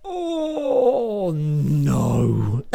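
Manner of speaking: loud mock cry of panic; horrified cry. On the cruise ship, a loud horrified cry. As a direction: yelp it out like disaster struck. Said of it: "I was horrified".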